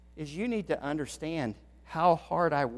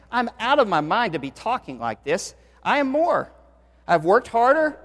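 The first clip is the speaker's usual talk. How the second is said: impassioned scripture reading; 2 semitones higher than usual. Acted. Preacher reading Paul's boast to the church, impassioned. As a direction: build the boast with force.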